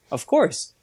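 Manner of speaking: lightly voiced, as if it were obvious; matter-of-fact quote. Quoting the man from Qatar, mildly matter-of-fact. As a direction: toss it off like the answer is self-evident. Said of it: "He was like".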